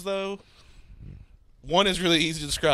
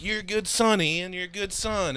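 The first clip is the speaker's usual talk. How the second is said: Nick Cage impression; 4 semitones higher, 3 dB quieter, slower than usual. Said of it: "Can one of you do an impression of it?".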